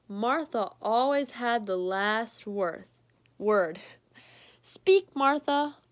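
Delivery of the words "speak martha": higher, louder command to a dog; mock stern command; commanding doubter. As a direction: order the dog to speak.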